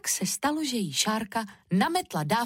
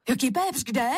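put-on higher child voice, baffled; puzzled little Šárka; 5 semitones higher, 3 dB louder than usual. A narrator's reading. Šárka asks mother about pepper, puzzled. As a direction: ask as a bewildered little girl.

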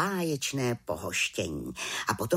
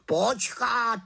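high, louder raven cutting in; raven interrupting; 11 semitones higher, 4 dB louder than usual. A narrator's reading. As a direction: break in urgently as the raven. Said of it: "skočil jí do řeči Havran". (havran skáče do řeči, hlasitě)

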